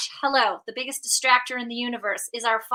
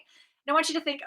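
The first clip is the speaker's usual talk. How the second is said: ordinary talk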